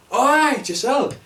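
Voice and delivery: high, loud, badly faked Scottish accent; hammed-up Scottish greeting, badly done; terrible Scottish accent. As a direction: call out in botched Scottish. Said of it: "That was a terrible Scottish accent".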